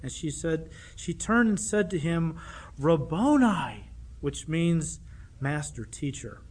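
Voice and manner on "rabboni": drawn-out cry. Retold or imitated. Mary cries out to Jesus.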